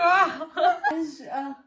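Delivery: very slow, loud, laughing; slow exaggerated mouthing. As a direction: drag it out for lip reading. Exaggerated mouthing for lip reading.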